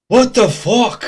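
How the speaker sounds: high, loud indignant cry; shocked outburst. Acted. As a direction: burst out in acted disbelief. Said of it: "catches his breath and is like".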